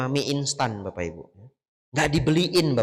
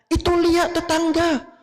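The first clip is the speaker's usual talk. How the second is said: shrill nagging; 14 semitones higher than usual. Retold or imitated. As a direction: nag the husband to work harder, pitch soaring. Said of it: "Dia ngomel-ngomel seharian". (istri mengomel dengan suara tinggi dan keras)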